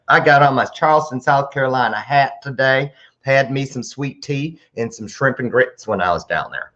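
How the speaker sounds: Southern accent, lightly hammed up; put-on Southern accent. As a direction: play up a Southern accent for fun. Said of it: "I didn't dare talk like that".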